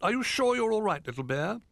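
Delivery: a kindly owl calling down. A narrator's reading. Hoot worried.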